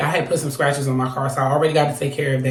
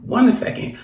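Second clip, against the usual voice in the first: retold disbelief; 5 semitones higher, 3 dB quieter than usual. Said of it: "So I'm like".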